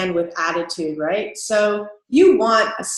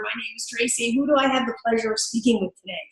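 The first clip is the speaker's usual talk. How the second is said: friendly phone greeting; 5 dB quieter, faster than usual. Shown as a demonstration. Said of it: "and it's more like".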